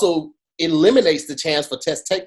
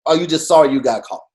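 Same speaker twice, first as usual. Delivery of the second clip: pleading mock question, pitch jumping up; mocking the apology. Host mocks the rapper's apology with pleading voice. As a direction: needle him with a half-sincere plea. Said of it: "be like".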